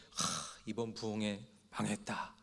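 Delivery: breathy whisper of defeat; whispered sigh. Retold or imitated. Disappointed preacher whispering to himself that the revival failed. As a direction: whisper it like giving up.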